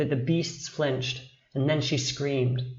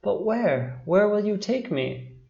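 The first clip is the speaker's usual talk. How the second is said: higher-pitched, wary questions; suspicious; 6 semitones higher than usual. A narrator's reading. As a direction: question the stranger with mild distrust. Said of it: "she replied suspiciously".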